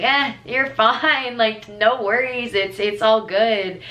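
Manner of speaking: slow, easygoing reassurance; slow, casual you're-fine; reassuring. Retold or imitated. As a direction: let him off the hook gently and slowly. Reassuring the embarrassed boy.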